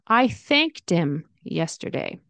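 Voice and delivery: "thanked him" linked as thanked-im, slowly; dropped h. Shown as a demonstration. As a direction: link "thanked" into "im". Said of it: "him can turn into im".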